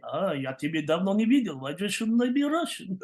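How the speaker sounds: put-on rising Russian-accented patter; playful switch into Russian accent. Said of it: "Oh, now you're Russian".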